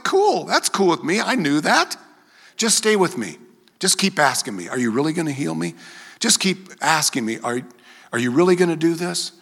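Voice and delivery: lightly voiced God, reassuring; a hint of a gentle God talking; voicing God. Preacher voicing God reassuring a believer.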